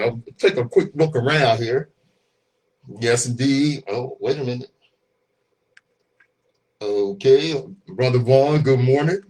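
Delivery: talking through a mask; muffled behind mask. Real, not acted. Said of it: "Rochelle says she can't hear me too clear with this mask on".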